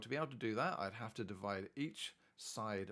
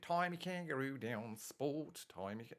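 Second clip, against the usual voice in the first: put-on Australian accent; 3 semitones higher than usual. Tutor clowning over a map of Australia, mock Australian accent. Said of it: "that's my best Australian accent".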